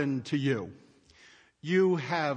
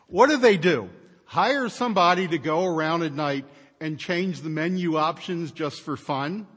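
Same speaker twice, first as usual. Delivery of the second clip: sarcastic; 5 dB louder than usual. Real, not acted. Sarcastic jab at menus.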